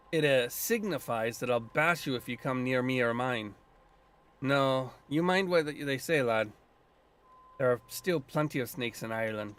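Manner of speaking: put-on light Scottish lilt for the old druid; a hint of Scottish brogue, gruff and proud; lightly voiced Scottish druid; Scottish accent. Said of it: "I'm giving him a Scottish accent".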